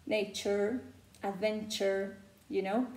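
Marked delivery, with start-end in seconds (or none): 0.0-0.8 American accent. Shown as a demonstration. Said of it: "Y en el caso del inglés americano, lo fusionamos con la R". 1.2-2.2 American accent. Shown as a demonstration. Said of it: "American speakers make this phoneme".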